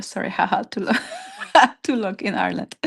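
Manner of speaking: real laugh breaking into the words; giggling while stumbling for the words; laughing apology. Real, not acted. Laughing at own word struggle.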